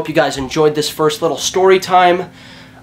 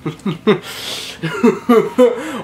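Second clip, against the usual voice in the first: grim laugh; 5 semitones higher than usual. Retold or imitated. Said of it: "like the Grim Reaper's coming to take your soul laugh".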